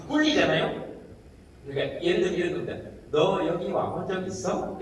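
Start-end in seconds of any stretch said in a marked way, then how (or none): 3.1-4.8 soft, slow Seoul intonation; Seoul speech shown as an example; Seoul accent. Shown as a demonstration. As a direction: demonstrate a gentle Seoul-dialect question, drawn out. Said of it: "이렇게 서울 말 아닙니까?".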